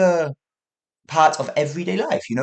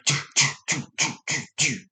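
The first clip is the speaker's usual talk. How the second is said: imitating house shaking; 3 dB quieter than usual. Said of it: "the whole house started going".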